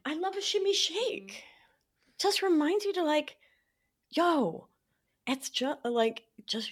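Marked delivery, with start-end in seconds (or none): 2.2-4.7 whispered. Shown as a demonstration. Calming self, whisper.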